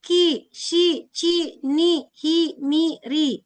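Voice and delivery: each kana syllable said slowly and distinctly, ki, si, ci, ni, hi, mi, ri; clear syllable drill. Shown as a demonstration. Teacher drills the i-syllables for her students, clearly. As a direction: model the i-sounds one by one for the class. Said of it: "bunyi hurufnya tuh ada i-nya".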